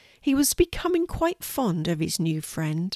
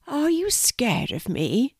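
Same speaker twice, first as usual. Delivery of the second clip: high, slow little spider; little creature voice, drawn out and high; tiny spider voice; 6 semitones higher than usual. Acted. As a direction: ask timidly in a small, high spider voice. Tiny spider speaks to horse.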